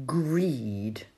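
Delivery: Owl breathes the single word in a whisper. Acted. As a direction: hush it like a secret. Owl names sermon subject.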